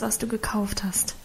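urgent whisper. A narrator's reading. Mother secretly instructs her husband, whispering. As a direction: breathe it so no one hears.

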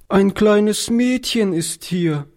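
put-on high, slow, trembling child's voice; a small lost girl quavering in the dark; trembling little girl. A narrator's reading. Lost little girl speaks up to old Oliver, trembling child voice. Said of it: "durch ein zitterndes Kinderstimmchen".

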